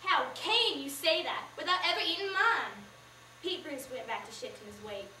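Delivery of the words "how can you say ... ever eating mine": sharp, louder offended question; indignant. Acted. Baker Mama to the stranger, indignant and louder. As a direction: bristle at the insult to her pie. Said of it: "Mama's back stiffened".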